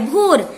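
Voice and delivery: भोर with a long "o", like "bhor"; corrected भोर, no "au" in it; correct vowel ओ. Shown as a demonstration. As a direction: repeat भोर with a pure "oh". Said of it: "सही word है भोर".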